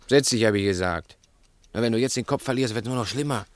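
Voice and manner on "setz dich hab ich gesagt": louder, insistent repeat, stress on Setz; firmer command. Acted. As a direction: hammer home the order, hit Setz hard. Wiederholt den Befehl schärfer. (lauter und nachdrücklicher wiederholter Befehl)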